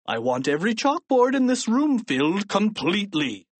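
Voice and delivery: growled order. A narrator's reading. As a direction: lay down the punishment with a growl. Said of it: "growled Mister Krupp".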